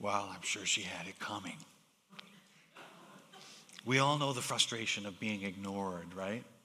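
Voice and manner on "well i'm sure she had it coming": whispered aside. Speaker retells an ambassador leaning in to whisper in his ear. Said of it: "whispered in his ear".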